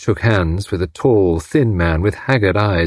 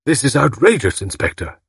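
high-pitched outrage, dropping on the last word; mildly acted indignation; indignant protest; 5 semitones higher than usual. A narrator's reading. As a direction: object as an affronted gentleman. Indignant husband springs up angrily.

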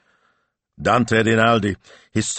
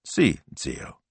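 lower, simple acceptance; simple and calm; 4 semitones lower, 4 dB quieter than usual. A narrator's reading. Speranza answers impatient Zio, simply and calmly. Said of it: "said Signor Speranza simply".

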